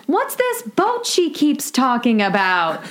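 quoting Rose. Retold or imitated. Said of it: "And Rose goes".

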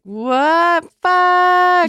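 high, loud, drawn-out mock despair; exaggerated high-pitched cry of dismay; mock anguished wail. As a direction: wail it out in hammed-up horror. Acting Corky surfacing in horror.

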